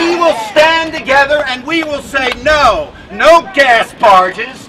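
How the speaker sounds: roaring rallying speech. Real, not acted. Rally chant against fracking.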